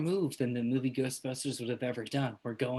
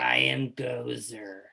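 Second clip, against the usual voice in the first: slow, lower god voice; Gozer voice; 5 semitones lower, much slower than usual. Acted. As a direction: slowly proclaim as Gozer. GM voicing Gozer.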